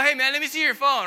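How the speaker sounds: cool surfer dude. Retold or imitated. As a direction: breeze through it like a chill stoner. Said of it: "He's totally cool".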